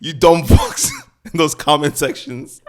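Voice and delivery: loud, high, fired-up rant; riled up rant. Real, not acted. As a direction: tear into the commenters, laughing. Ranting at commenters.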